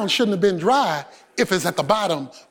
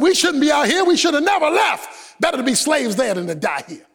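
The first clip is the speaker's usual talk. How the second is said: higher, rising into a shout of panic; panicked people; 3 semitones higher than usual. Retold or imitated. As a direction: whine like frightened runaways. Israelites panic at the sea.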